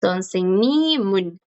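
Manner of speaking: sonsennimun said slowly as one flowing word; linked pronunciation. Shown as a demonstration. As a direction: let the sound carry into un. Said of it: "¿Viste que el sonido continúa?".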